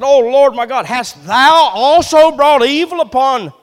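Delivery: Elijah's anguished prayer. Acted. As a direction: plead and argue with God for the widow's son. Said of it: "Elijah cried to the Lord and said".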